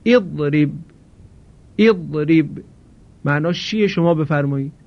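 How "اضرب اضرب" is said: اضرب said as idrib, opening with a short i; Arabic model word. Shown as a demonstration. Teacher models the verb twice for the class, careful demonstration. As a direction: say اضرب twice, clearly, i at the start. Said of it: "مانند این فعل".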